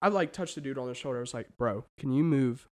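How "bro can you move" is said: soft, low, understated asking; low-key polite request. Retold or imitated. Asking concertgoer to shift over, quiet and low. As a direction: ask it quietly, man to man.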